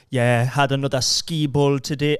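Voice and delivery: put-on slow, botched Welsh accent; bad Welsh accent. Man imitating an Instagram fitness guy, awful Welsh accent. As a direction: attempt a strong Welsh accent and miss. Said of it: "a dead strong Welsh accent".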